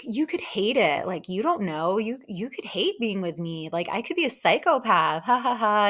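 imitated awkward rambling with a forced laugh. Woman deflecting his feelings, awkward. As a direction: mimic her nervous deflecting. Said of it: "you can tell she feels awkward".

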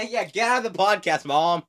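kicking mom out of the podcast, laughing and loud; laughing shout at mom. Real, not acted. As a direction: shoo your mom out while laughing.

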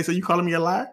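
laughing. Retold or imitated. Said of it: "look me right in my eyes and say".

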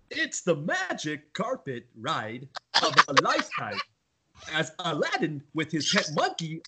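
slow, halting movie synopsis; lightly voiced Walken trailer read; Christopher Walken impression. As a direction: pause oddly, like Walken narrating. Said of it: "do our Christopher Walken impression".

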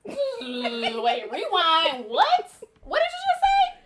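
rising into a high, loud disbelieving squeal; retold shock. Shocked at mom's news at shower.

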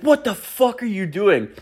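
high-pitched imitation of a protesting friend; indignant buddy. Buddy protesting being whipped out the door, high indignant voice. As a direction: pitch it way up in baffled outrage.

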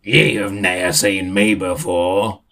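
slow, booming lofty voice; booming arrogant alien overlord. Acted. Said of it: "with a deep booming voice".

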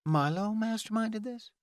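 high-pitched incredulous question; shocked. Acted. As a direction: repeat it in disbelief, voice shooting up. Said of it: "stared at him in shock".

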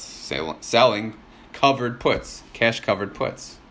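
talking between sips of coffee; words around a sip of coffee; while sipping coffee. Real, not acted. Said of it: "Sorry, I'm drinking my coffee in between".

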